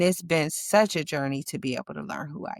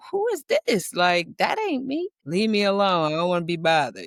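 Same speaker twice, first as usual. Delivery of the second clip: startled at herself; 3 dB louder than usual. Retold or imitated. Voicing her startled self.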